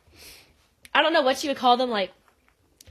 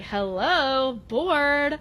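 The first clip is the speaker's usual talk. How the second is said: bored attitude; 3 semitones higher, much slower than usual. Retold or imitated. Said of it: "Kate delivers some major attitude".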